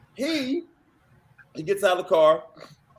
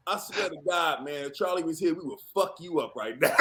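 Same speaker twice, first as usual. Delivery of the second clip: low mock threat; 4 semitones lower, 7 dB quieter than usual.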